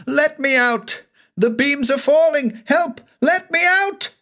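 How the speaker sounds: very high, loud terrified screams; screaming for help. A narrator's reading. Man crushed by a falling house screams for help. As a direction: scream to be let out as the house falls. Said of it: "Banks screamed on".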